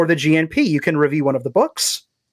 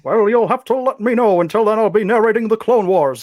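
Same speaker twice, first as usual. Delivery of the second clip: booming trailer announcer voice, pitched up; announcer guy; 3 semitones higher than usual. Pretend. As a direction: narrate it like an epic movie trailer. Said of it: "there may be a place for that voice".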